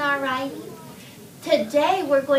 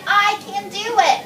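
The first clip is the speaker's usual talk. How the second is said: high, loud demonstration shout; 7 semitones higher, 5 dB louder than usual. Shown as a demonstration. Teacher models Ryan's line for class, shouted. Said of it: "Ryan shouted".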